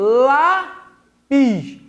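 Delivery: "Lápis" with a long, strong "Lá", then a separate "pis"; "Lápis" drawn out to show its stronger first syllable; stress on first syllable. Shown as a demonstration. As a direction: lean hard and long on the "Lá" of "Lápis". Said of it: "a pronúncia é mais forte na primeira sílaba".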